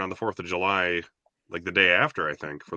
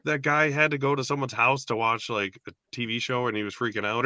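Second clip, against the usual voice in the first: higher, eager question to mom; a kid trying to remember a movie title; curious kid asking; 6 semitones higher than usual. Retold or imitated. Child asking mom about a half-remembered movie, eager and higher. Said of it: "it's like".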